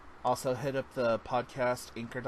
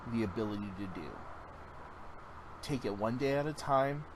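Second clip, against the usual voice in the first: gentle reassurance. Retold or imitated. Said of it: "I looked at her and I said".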